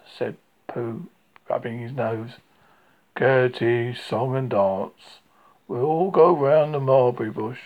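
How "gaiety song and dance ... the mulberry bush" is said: gloomy donkey. Acted. Donkey sarcastic about gaiety.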